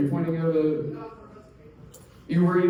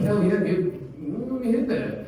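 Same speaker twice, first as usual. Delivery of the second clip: higher, excited stoner voice; pitched-up eager raver; 5 semitones higher than usual. Retold or imitated. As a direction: grab at it like a hyped partier. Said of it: "And they're like".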